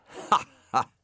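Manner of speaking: high, loud forced laugh; the snail laughing anxiously in front of the dog; nervous laugh. A narrator's reading. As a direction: laugh to cover your nerves. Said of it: "laughed Brian again, just a little nervously".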